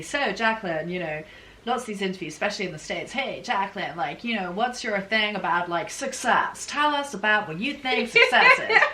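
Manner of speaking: bad mock American interviewer accent, rising loud at the end; hammed-up American accent asking about success; terrible American accent. British host mocking American interviewers in a bad American accent. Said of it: "Sorry about my terrible American accent".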